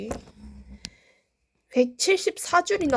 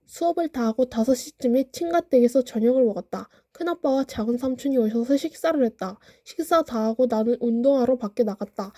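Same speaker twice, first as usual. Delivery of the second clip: carefully enunciated diary reading; over enunciating. Shown as a demonstration. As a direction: read each word crisply and clearly. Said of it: "또박또박 읽어드릴게요".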